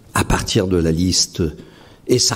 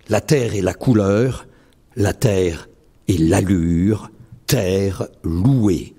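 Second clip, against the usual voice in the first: poem recital; 5 semitones higher than usual. Acted. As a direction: recite each line as if placing it carefully. Recites his own poem. (récitation de poème lente et posée)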